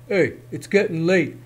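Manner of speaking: a hint of a brash goblin; lightly voiced impatient goblin; horned goblin. Horned goblin hurrying Herschel, lightly voiced. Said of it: "the goblin said".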